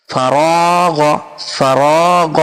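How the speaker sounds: ফারাগ with গ from the throat like Arabic ghayn; ফারাগ: last sound গইন, not গা; guttural ghayn ending. Shown as a demonstration. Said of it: "গা হলো না, গা হলো কি গইন".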